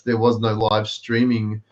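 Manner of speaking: ordinary talk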